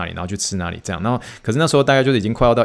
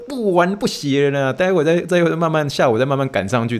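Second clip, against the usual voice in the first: giving in; 6 semitones higher than usual. Retold or imitated. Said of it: "我说".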